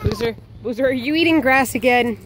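mock scolding. Real, not acted. Scolding dog eating grass.

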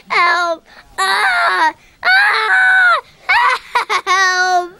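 mock cries for help. Calling for help, screams.

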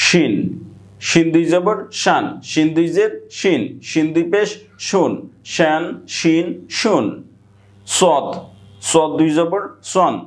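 measured recitation in a repeating tune, pausing between groups; singsong spelling drill. Shown as a demonstration. Teacher drilling Arabic tanween for students, singsong recitation. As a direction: chant each letter with its vowel marks, then its sound.

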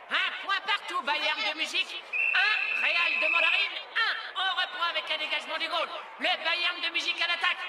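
brisk play-by-play voice; live match commentary. Acted. Announcer calling the cartoon football match. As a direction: call the match like a stadium announcer.

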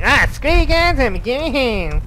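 a hint of Cartman's snotty brush-off; half-hearted cartoon kid sneer. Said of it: "um, Cartman".

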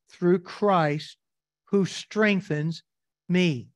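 very slow, each phrase set apart by long pauses; slow scripture reading. Shown as a demonstration. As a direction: read it word by word, letting every phrase land. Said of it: "Notice what he says in verse".

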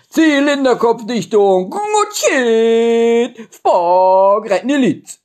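word said in reverse; high, loud backwards-sounding gibberish; backwards speech. Shown as a demonstration. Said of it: "Die machen wir jetzt rückwärts".

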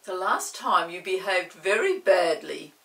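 stern Chinky. Acted. Chinky scolding the wishing chair, stern and loud. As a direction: tell the chair off firmly. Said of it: "Chinky looked at it sternly".

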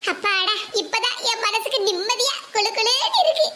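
gloating while laughing to herself; gleeful laugh. Acted. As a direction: chuckle through it, pleased the plan works. Schemer gloats as fight starts.

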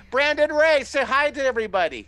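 high, loud showman's introduction; announcing a guest. Real, not acted. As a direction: bring him on like a star. Host introduces guest artist.

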